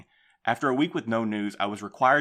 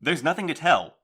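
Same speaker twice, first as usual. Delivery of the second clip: raised insistent protest; 6 semitones higher, 5 dB louder than usual. Acted. Postmaster argues against strike.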